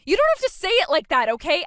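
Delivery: loud, high, offended comeback; defensive protest. Acted. Bride answering sister's rebuke on wedding day, defensive. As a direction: push back loudly at the rebuke.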